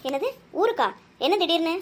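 taken aback, pitch jumping up; quick startled questioning; surprised. Acted. Reacting to sudden news of a trip home, surprised.

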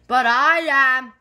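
high, loud gleeful retort. A narrator's reading. Gran defies Mom with the squirter, gleeful. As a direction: crow it out, without an actual laugh. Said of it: "laughed Gran".

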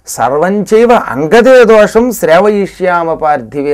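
slow, measured chanting of shlokas; Sanskrit verse recitation. Acted. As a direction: chant each line evenly with long drawn syllables. (నిదానంగా సాగదీస్తూ శ్లోక పఠనం)

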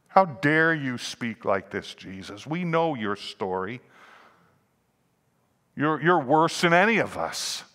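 mock outrage, building to a jab at the end; indignant accusation. Accusers confront Jesus.

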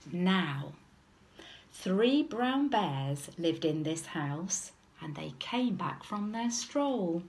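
measured storybook reading; lilting narration for small children; children's story narration. A narrator's reading. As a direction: tell it as a picture-book story. Reads story aloud to children.

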